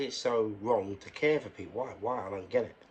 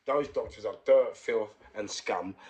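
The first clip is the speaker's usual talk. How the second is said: angry contempt; 5 dB louder than usual. Real, not acted. Angry rant about doctors.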